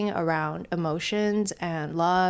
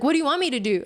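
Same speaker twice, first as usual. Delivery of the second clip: mildly exasperated, higher-pitched retort; mad mom; 7 semitones higher, much faster than usual. Retold or imitated. Daughter retells mom snapping during their walk, mildly mad. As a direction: retell mom's annoyed comeback with mild heat. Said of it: "she got mad at me".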